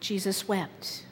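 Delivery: a pastor falling quiet for the saddest line; hushed solemn. Acted. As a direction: drop to a hush. Solemn hush after climax.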